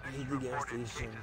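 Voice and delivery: said through a yawn. Real, not acted. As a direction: yawn while talking. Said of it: "listening to you yawn".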